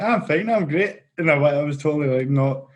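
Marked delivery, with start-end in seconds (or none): 0.0-1.0 higher-pitched mock reassurance; imitating a brush-off that hides the truth; feigned okay. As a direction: insist lightly that all is well. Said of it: "I was the king of being like".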